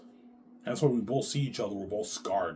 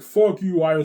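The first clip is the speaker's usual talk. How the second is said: loud, high retold curse; angry retort; 8 semitones higher, 13 dB louder than usual. Wife cursing out Ivan, loud angry outburst. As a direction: fling it out in mock fury.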